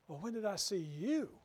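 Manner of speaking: "you" rising in indignant challenge; defensive, as if falsely accused; proud defensiveness. Shown as a demonstration. The proud one challenges the Lord, indignant rise on "you". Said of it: "Words are almost the same. The emphasis is just a little bit different".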